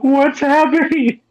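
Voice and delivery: playing lost and baffled; mock confused. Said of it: "I'm just sitting there like".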